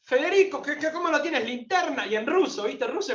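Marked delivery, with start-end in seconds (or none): 0.0-2.1 retold scolding. Older pilgrim scolding Federico for having no flashlight, mock scolding. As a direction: scold him like a worried father. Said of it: "me empieza a retar".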